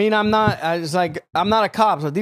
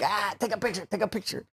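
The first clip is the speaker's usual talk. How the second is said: quiet quoted mumble; 2 semitones higher, 10 dB quieter than usual. Retold or imitated. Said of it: "He's like".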